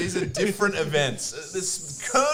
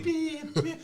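imitated beep; 10 semitones higher, 4 dB quieter than usual. Imitates beeps while telling the story.

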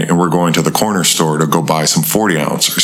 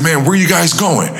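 acting like a fellow hunter; 12 semitones higher than usual. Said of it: "I made up a lie".

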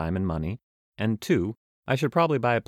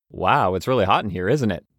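new traveler's voice; 6 dB louder than usual. Acted. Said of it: "I do need to change voices".

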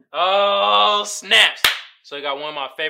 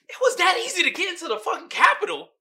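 amazed disbelief; 12 semitones higher, 3 dB louder, faster than usual. Retold or imitated. Imagined terrorists amazed at Capitol.

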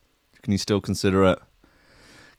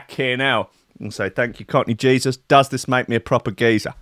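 Cockney geezer; 3 semitones higher than usual. Pretend. Bragging about Costa points as a mock Cockney geezer. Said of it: "fucking Cockney Jesus would be proud of me".

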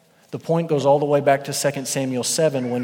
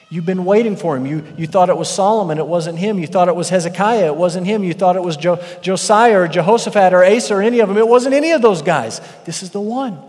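louder, higher, building to a peak; emphatic preaching; 4 semitones higher, 6 dB louder than usual. Acted. Preacher pressing the congregation about the promised king. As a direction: preach it with rising force.

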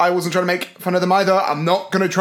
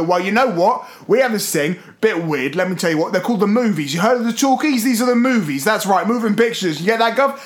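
lightly put-on Cockney; easy Cockney wide boy; Cockney accent. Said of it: "change from Cockney".

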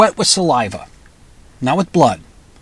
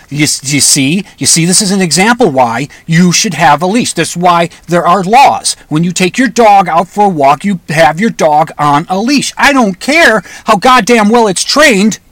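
imagined scolding; 3 semitones higher, 4 dB louder than usual. Pretend. Imagined lecture to the dog's owner.

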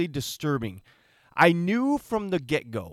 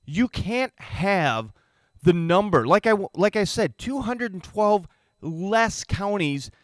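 rising louder, punching words; heated emphatic rant; 4 semitones higher, 4 dB louder than usual. Real, not acted. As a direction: get fired up and hammer it.

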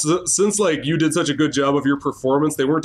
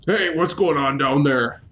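gruff guard. Acted. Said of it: "a gruff voice that go".

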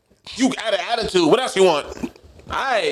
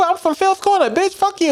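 angry yelling; 12 semitones higher than usual. Retold or imitated. Acted drive-thru cursing fight.

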